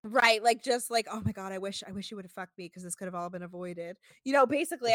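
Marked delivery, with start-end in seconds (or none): 1.1-4.0 soft, breathy imitation of a whisper; hushed whisper. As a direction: murmur it close to her ear. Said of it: "he fucking whispered that in her ear".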